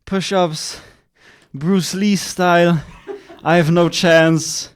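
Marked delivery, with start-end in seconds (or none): 1.5-4.7 slow, laughing through words. Real, not acted. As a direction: laugh while you speak. Laughing at friend's push-ups.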